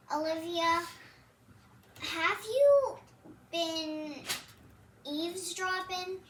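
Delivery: a mother catching her daughter snooping; amused suspicion. A narrator's reading. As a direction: catch her out, half teasing.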